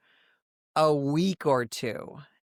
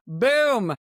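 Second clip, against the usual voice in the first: loud, raised exclaimed boom; imitated boom; 6 semitones higher, 5 dB louder than usual. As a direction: punch it out like a sudden blast. Imitates the panic-button raid.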